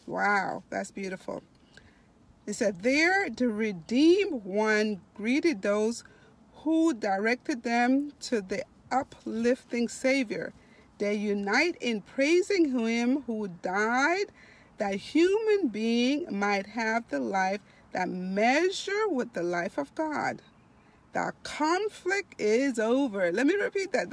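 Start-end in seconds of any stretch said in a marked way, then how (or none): 2.8-20.4 slow, stretched, emphatic reading aloud; devotional reading. Acted. Preacher reading of heaven to online listeners, slow devotional reading. 21.1-23.3 slow, stretched, emphatic reading aloud; devotional reading. Acted. Preacher reading of heaven to online listeners, slow devotional reading.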